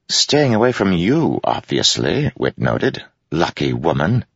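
sly jester. Acted. Wit quips.

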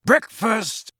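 bright, loud call for breakfast; loud and joyful. A narrator's reading. Sirius calling everyone to breakfast, loud and joyful. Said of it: "said Sirius loudly and joyfully".

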